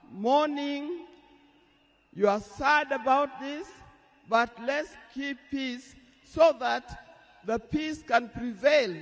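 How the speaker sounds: loud earnest plea to mourners; impassioned appeal. Real, not acted. Widow appealing to mourning crowd.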